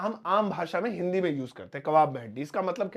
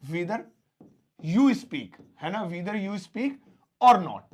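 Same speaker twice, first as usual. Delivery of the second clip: piece by piece; much slower than usual. Shown as a demonstration. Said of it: "सबसे पहले हम whether बोलेंगे".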